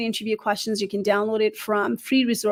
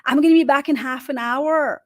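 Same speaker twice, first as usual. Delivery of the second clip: put-on higher, louder shush to the kids; hushing the family; 4 semitones higher, 4 dB louder than usual. A mother tells her husband and kids to hush, higher and louder. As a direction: hush the household before going live. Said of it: "I would tell my husband and my kids".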